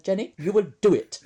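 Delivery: light Indian accent impression; imitating an Indian accent. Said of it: "in his beautiful Indian accent".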